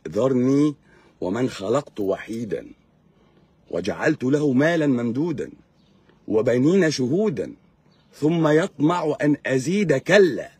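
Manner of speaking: slow, measured reciting of a Quranic verse; Quran recitation. Retold or imitated. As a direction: intone it like a reciter in the mosque. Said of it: "ما هو بيقول لك ايه".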